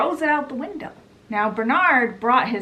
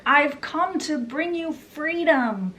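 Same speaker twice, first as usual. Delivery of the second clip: mock yell; 8 semitones higher than usual. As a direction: imitate a zealous liberator addressing a crowd. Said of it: "he yells out".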